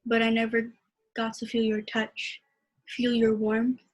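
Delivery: measured, heartfelt poem reading; poem recitation. Acted. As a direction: read it like a spoken-word poem. Poetry reading at open mic.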